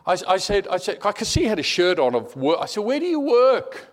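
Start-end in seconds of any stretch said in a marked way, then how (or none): 2.8-3.9 high-pitched call across a distance; retold yell. Calling to a man fleeing across the road, high retold yell. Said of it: "I yelled out to him".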